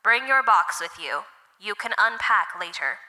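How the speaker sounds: loud robotic loudspeaker voice; booming computer voice. Acted. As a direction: announce it like a booming machine. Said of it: "a computerized voice boomed over the loudspeaker".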